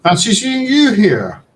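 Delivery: sly greeting. Acted. NPC greeting the party.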